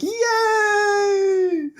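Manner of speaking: high, excited group cheer; cheering crowd. Retold or imitated. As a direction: throw it up like a happy crowd. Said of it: "everyone's like".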